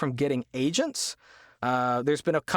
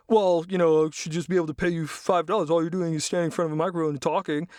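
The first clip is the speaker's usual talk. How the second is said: dismissive client; 3 semitones higher, faster than usual. Retold or imitated. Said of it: "those kind of statements".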